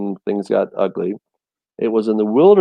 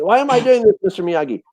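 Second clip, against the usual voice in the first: put-on whiny Karate Kid pupil; 9 semitones higher, faster than usual. Speaker quotes the Karate Kid asking Mister Miyagi, high and whiny. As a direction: play the baffled kid asking his teacher.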